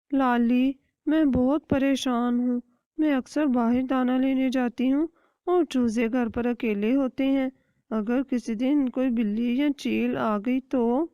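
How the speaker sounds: a hint of an anxious mother hen; worried hen. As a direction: fret to your friend about the chicks. Kattho hen voiced worrying.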